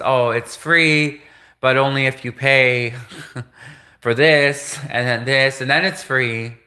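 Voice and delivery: lightly imitated Indian salesman; Indian accent. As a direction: explain the catch with a mock Indian accent. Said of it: "I can do an Indian".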